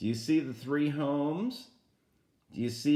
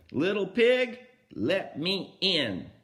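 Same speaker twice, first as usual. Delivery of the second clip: big bad wolf; 4 semitones higher, 4 dB louder than usual. Storyteller voicing the wolf to the first pig, calling loudly. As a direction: call out like the wolf at the door.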